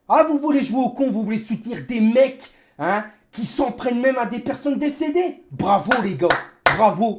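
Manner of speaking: furious rant at viewers; raging gamer. Real, not acted. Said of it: "c'est ma rage qui parle".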